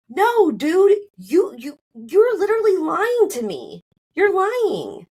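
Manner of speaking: high, heated replay of calling out his lies; retold accusation. Wife accusing husband of lying, high heated accusation. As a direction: re-enact the blow-up.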